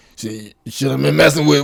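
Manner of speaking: rowdy ruckus voice. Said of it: "In his ruckus voice".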